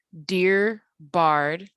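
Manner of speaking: "dear bard" as an iambic pair, weight on BARD; unstressed-stressed pair. Shown as a demonstration. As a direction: count out "dear bard", short then long. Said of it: "unstressed and stressed syllables repeating".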